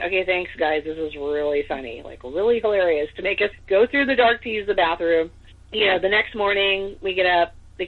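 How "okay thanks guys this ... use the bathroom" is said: dry sarcastic thanks, pitched down at first. Retold or imitated. Walking through the dark to the bathroom, sarcastic. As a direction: grumble it sarcastically, not amused at all.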